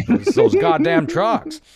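shouted, high-pitched movie line; loud movie quote. Acted. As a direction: yell it like a furious character.

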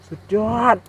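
amazed exclamation. Real, not acted. Amazed at honey-filled nest.

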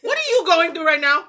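laughing in disbelief; half shouting through a laugh. Real, not acted. Friend acting oddly beside her.

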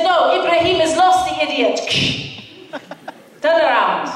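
put-on exasperated Arab-accented scoff about the lost driver. Imad explaining they are not followed, Arab accent. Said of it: "I really have to do the accents".

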